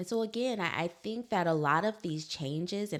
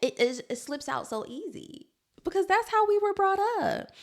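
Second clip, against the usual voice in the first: laughing; 5 dB louder than usual. Real, not acted. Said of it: "laughing high voice".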